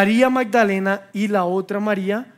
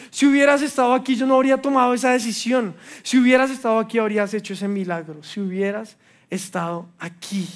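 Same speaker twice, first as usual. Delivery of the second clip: rising reproach; faster than usual. Acted. Preaching build.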